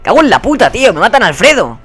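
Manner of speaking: high, loud curse of dismay; real exasperated outburst; exasperated cursing. Real, not acted. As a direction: wail in frustration at losing a teammate. Cursing as teammate gets killed.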